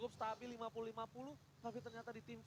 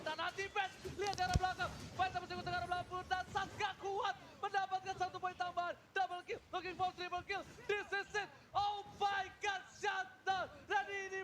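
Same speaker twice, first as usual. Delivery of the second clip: hyped shouting play-by-play, higher and louder; fighting game announcer; 8 semitones higher, 7 dB louder than usual. Real, not acted. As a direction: roar the kills like an arena announcer. Caster hyping a multi-kill.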